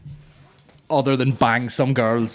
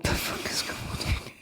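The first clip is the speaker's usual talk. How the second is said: softer, whispered disbelief; hushed bafflement; 11 dB quieter, slower than usual. Real, not acted. Comedian puzzled at his ticket sales, hushed and baffled. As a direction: trail down into a whisper.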